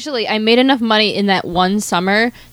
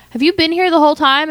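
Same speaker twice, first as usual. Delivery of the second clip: security guard voice; 8 semitones higher than usual. Retold or imitated. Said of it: "the security guard was like".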